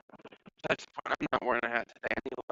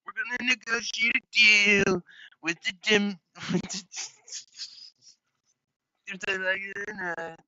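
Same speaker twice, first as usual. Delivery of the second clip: politician impression; 4 semitones higher than usual. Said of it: "he's like".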